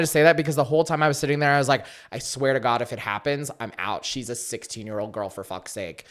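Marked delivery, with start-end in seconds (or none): 2.1-6.0 muttering under breath. Retold or imitated. Retold muttered thought.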